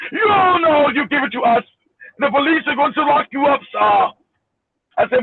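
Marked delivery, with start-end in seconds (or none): 0.1-4.1 protesting scam caller in a mock Indian accent. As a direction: object insistently, imitating an Indian accent. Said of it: "with an Indian accent".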